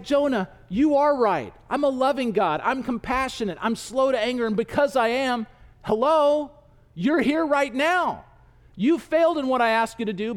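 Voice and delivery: mild exasperation. Acted. God sets Jonah straight, mildly exasperated. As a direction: spell it out to someone missing the obvious.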